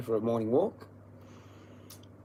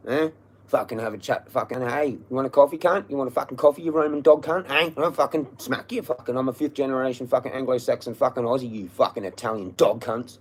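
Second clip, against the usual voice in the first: loud, high, furious yelling at the landlord; furious shout; 3 semitones higher, 6 dB louder than usual. Real, not acted. Yelling abuse at the absent Roman landlords, furious. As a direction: spit every insult out at full volume.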